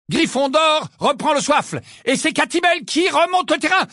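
high, determined match commentary; valiantly crying out. A narrator's reading. Lee struggling to be heard over the song, crying valiantly. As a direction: push your voice over the singing. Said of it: "s'écria vaillamment Lee".

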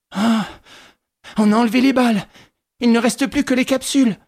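lightly voiced alarmed young man; young nephew's voice. A narrator's reading. Nephew to his aunt, puzzled and alarmed.

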